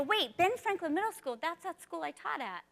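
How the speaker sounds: retold moment of sudden recognition; surprised realization. Teacher recalling seeing her old school's name, surprised realization.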